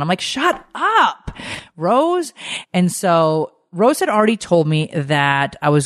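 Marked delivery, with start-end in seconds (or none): 0.2-2.3 mock dismissive. Brushing off the psychic.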